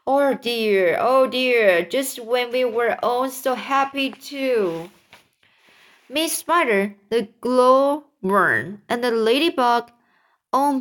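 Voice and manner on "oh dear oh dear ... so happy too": mild, drawn-out cry of dismay; distressed lament. Acted. Ladybug mourning her lost friends, mildly distressed cry. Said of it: "cried the ladybug".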